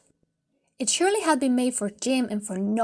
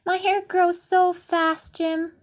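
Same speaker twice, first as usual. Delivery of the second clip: higher, slow, tearful smile; smiling through tears; 6 semitones higher, slower than usual. Acted. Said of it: "smile through her tears and say".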